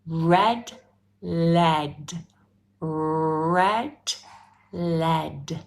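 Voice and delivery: slow careful red lead; pronunciation drill. Shown as a demonstration. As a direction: model each sound crisply for the class. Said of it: "who finds these difficult to pronounce".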